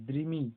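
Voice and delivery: দ্রিমি with দ and র both audible; both দ and র sounded. Shown as a demonstration. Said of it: "দ এবং র দুটোরই উচ্চারণ হয়".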